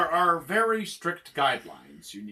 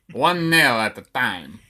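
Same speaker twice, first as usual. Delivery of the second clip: attempted Romanian accent; slower than usual. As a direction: draw it out as a hammy Romanian torturer. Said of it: "I can't do the Romanian".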